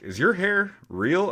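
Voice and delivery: high, slow imitation of a nosy kid; curious kid. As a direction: ask slowly in a high, wondering voice. Imitates a kid's nosy question.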